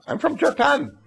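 high, eager schoolboy reply; boy's answer. Acted. Japanese schoolboy telling a classmate, high and eager. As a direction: pipe up brightly as a proud little boy.

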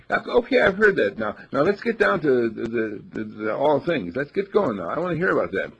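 high, loud, pushy and impatient; impatient eagerness. Acted. The mind demanding answers from the inner self, high and impatient. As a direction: hurry the inner voice along, eager.

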